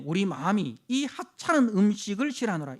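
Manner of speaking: loud scornful recitation; the people scorning the manna; disdainful declaration. Retold or imitated. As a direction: spit out contempt for the food. Quoting disdainful complaint.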